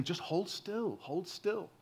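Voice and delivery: put-on calm a child while you pull the splinter; soothing parent. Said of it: "And he's saying".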